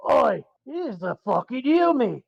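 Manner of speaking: slow gruff pirate orc growl. Retold or imitated. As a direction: do a lightly voiced orc pirate. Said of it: "your pirate voice".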